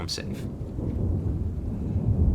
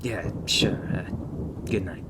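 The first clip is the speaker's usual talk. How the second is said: halting, stammered false starts; mildly embarrassed, fumbling for words; flustered; 2 semitones higher, faster than usual. Acted. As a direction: brush off the thanks awkwardly and hurry the goodbye. Acted flustered instructor dismissing grateful rookie.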